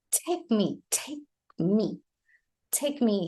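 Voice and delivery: "take me" with "take" closed on K; no vowel between "take" and "me"; silent E. Shown as a demonstration. Teacher shows learners the unpronounced E, K ending. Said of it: "it's not pronounced".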